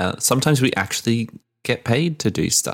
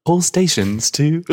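train station announcement; 5 semitones higher than usual. Pretend. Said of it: "like a train station announcement".

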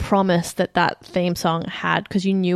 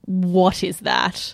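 slow baffled question; much slower than usual. Retold or imitated. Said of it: "turned to each other and were like".

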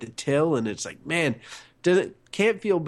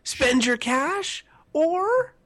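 announcer voice; 13 semitones higher, much slower than usual. Acted. Segment jingle call.

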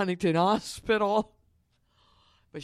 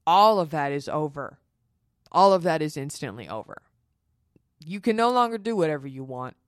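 emphatic declaration; 6 dB louder than usual. Real, not acted. Stressing life after baby ends.

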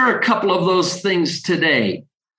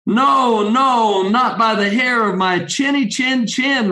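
lightly raised, plucky piggy refusal; little pig voice; 3 semitones higher than usual. Acted. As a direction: play a small pig standing firm. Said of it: "replied the little pig".

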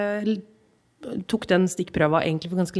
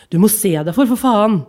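angry rebuke; 6 dB louder than usual. Acted. Man hit by cart swears.

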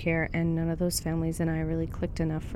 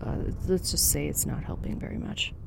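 muffled by a smoke mask; breathing through a mask; 3 dB quieter than usual. Acted. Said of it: "I'm sorry if my voice or my breathing sounds weird".

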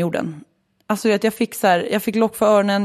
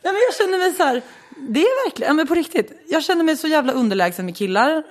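laughing while talking; 10 semitones higher than usual. Real, not acted. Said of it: "Fan vad du garvar".

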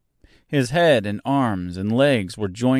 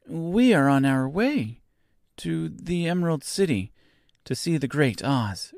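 put-on high, unhurried girl's voice; young Dorothy; 6 semitones higher than usual. A narrator's reading. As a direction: answer simply in a high girl's voice.

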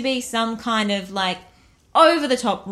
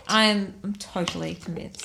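lower, over-earnest assurance; mock sincere; 4 semitones lower than usual. Real, not acted. Co-host assures host about the séance, mock sincere. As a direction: claim total belief, tongue in cheek. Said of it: "I sound totally sincere".

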